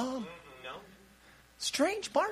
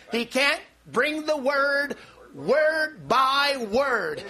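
word, by, word slowly spaced out; much slower than usual. Real, not acted. Preacher to congregation, slow emphatic word by word. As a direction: drag out each word by word.

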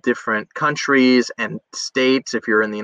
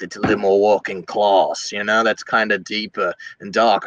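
deeper, working-class Cockney accent; 4 semitones lower than usual. Shown as a demonstration. Actor showing a working-class accent, low Cockney. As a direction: drop into a dark Cockney voice. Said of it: "There's also a Cockney accent".

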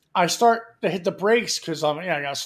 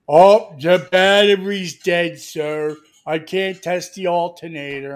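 slow, louder put-on clerk; 4 dB louder, slower than usual. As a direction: mimic the slow-witted clerk.

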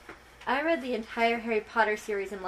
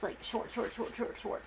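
fading to a whisper; 9 dB quieter than usual. Real, not acted. Repeating short, fading away.

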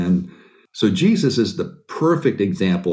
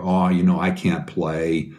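mock false modesty; 4 semitones lower than usual. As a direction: play the humble-brag kid fishing for more compliments. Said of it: "And I go".

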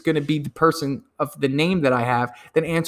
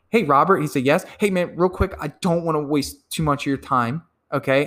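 friendly salesman opener. Shown as a demonstration. Acted cold call demo.

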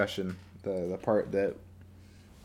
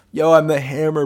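tough guy voice; 7 semitones higher, 11 dB louder than usual. Acted. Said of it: "be like".

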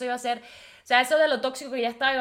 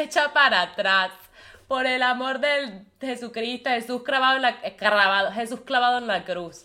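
louder, pressing plea; loud pleading warning; 4 dB louder than usual. Real, not acted. Urging women who are the other to back off, loud plea. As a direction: beg the listener to back off now.

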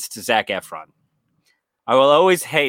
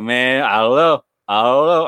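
hesitant detective impression; 5 dB louder than usual. Detective answering the dreamer's plea, lightly imitated reluctance. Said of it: "don't talk like this".

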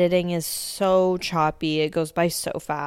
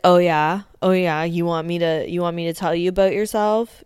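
louder mock challenge; imitating a taunt; 5 dB louder, faster than usual. Unit firing back at Snooki, loud mock taunt. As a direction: sneer it back, picking a fight. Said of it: "Unit's like".

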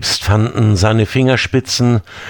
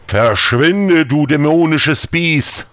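shouted; 6 semitones higher, slower than usual. Acted. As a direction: cry it out to banish the beast. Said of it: "schrie er laut". (laut geschrien)

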